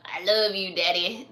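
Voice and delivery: deadpan imitation of a little boy; little kid from Shrek. Host replaying the Shrek kid to daddy, child voice. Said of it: "I just imagine".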